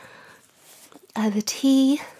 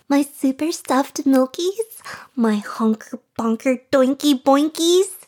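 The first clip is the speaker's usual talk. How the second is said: silly voice; 3 semitones higher than usual. Pretend. Reading a copypasta to her chat, hammed-up silly voice. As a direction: overblown comic bravado, building with each line. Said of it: "Let's do silly voice first".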